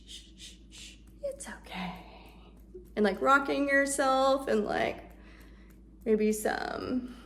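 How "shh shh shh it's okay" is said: soft whispered shushing; shushing a toddler. Shown as a demonstration. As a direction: soothe a baby to sleep. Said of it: "talking to a toddler".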